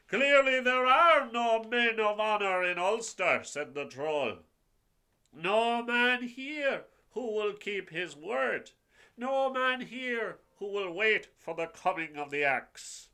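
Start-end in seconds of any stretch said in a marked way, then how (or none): 0.1-3.4 loud scornful troll pronouncement; scorn the whole hall as a troll. Acted. 5.3-13.1 loud scornful troll pronouncement; scorn the whole hall as a troll. Acted.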